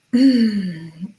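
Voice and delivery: heavy audible sigh; exasperated sigh. Real, not acted. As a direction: let out a big sigh. Sigh before commenting on texts.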